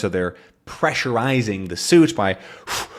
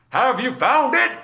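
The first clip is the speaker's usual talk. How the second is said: much higher called question; mild mock yell; 13 semitones higher than usual. Haddock calls to Tintin on the submarine, higher call. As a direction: call across the water. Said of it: "he yells to him".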